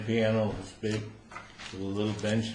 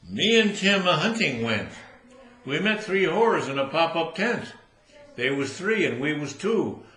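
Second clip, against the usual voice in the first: higher, louder hillbilly recitation; redneck poem; 5 semitones higher, 3 dB louder than usual. Acted. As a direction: recite proudly like a Georgia redneck. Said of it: "and he says".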